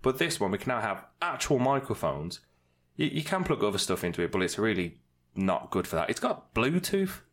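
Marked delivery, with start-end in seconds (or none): 6.1-7.2 high, slow echoing effect voice. Shown as a demonstration. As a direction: sing it through the effects pedal. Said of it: "This damn thing has Bluetooth".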